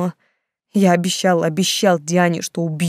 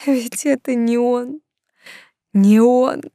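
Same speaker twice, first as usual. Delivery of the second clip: sobbing; 6 semitones higher, 4 dB louder, much slower than usual. A narrator's reading. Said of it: "разразилась рыданиями".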